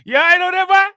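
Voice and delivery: loud, high uncle checking on you. Retold or imitated. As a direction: call out like an uncle across the yard. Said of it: "That's how my uncle be talking".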